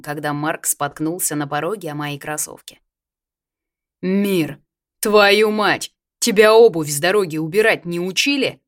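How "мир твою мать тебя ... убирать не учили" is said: loud angry yell, pitch jumping up. A narrator's reading. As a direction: bellow at your brother. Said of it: "заорал он".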